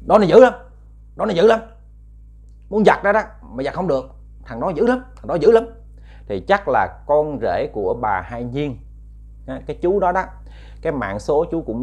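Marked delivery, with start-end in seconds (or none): 0.1-5.6 high, rising ghostly complaint. Retold or imitated. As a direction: whine like a spooked ghost. Ghost speaks of the man.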